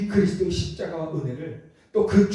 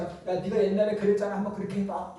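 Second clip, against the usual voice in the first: mild, higher-pitched taunt; mocking; 4 semitones higher than usual. Preacher voices the crowd taunting Jesus on the cross, mocking. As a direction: throw it out as a light jeer. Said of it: "조롱합니다".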